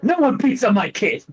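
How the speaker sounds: put-on a mother defending her child; protective mom. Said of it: "It's like".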